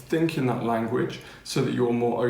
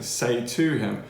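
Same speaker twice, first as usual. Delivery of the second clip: slow, with weight on "to"; stress on TO; slower than usual. Shown as a demonstration. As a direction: draw out and lean on "to". Teacher stresses the missing word.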